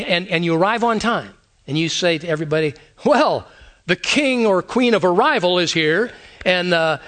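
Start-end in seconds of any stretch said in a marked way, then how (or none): 3.0-6.1 mock-grand sarcastic announcement; lightly sarcastic jab dressed as praise. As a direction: announce it as a barbed joke. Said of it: "but it's sarcastic".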